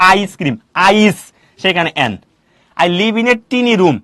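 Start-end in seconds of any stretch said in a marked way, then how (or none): 0.1-1.2 "আইস" said slowly to show its opening vowel; slow, careful "আইসক্রিম, আইস"; sounding out. Shown as a demonstration. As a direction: draw out the first sound of "আইস". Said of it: "আইসক্রিমের প্রথম কি আছে".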